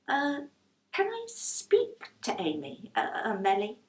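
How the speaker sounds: stumbling over the false name; a touch of nervous hesitation; hesitant Rose. Acted.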